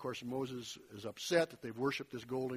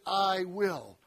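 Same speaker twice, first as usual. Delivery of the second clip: "I will" leaned on, louder; stressed I will; 3 semitones higher, 5 dB louder than usual. Shown as a demonstration. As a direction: hit "I will" firmly. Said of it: "I emphasized them as I read them".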